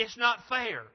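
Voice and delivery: acted flash of resentment; angry protest. Preacher voices someone turning angry over unfairness, angry protest. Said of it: "They become angry".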